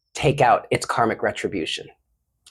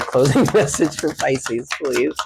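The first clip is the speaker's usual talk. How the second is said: plain with a laugh. Real, not acted. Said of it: "Closing message from a Pisces".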